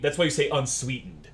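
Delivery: ordinary delivery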